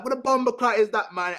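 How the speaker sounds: high, startled outburst; shocked exclamation. Retold or imitated. Guy acting out his shock during sex, high exclamation. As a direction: jump up in pitch, caught off guard. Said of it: "You're like".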